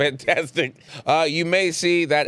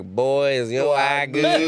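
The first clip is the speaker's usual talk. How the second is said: put-on Southern accent; much slower than usual. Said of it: "this is what we talk".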